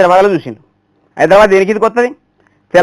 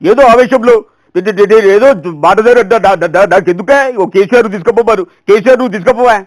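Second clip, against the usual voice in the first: lightly voiced stuttering politician, stuck on syllables; stammering politician; 4 dB louder, slower than usual. Imitating Hanumantha Rao stammering at the meeting. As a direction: stammer and push through the words. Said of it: "పాపం హనుమంతరావు గారు మాట్లాడతారు".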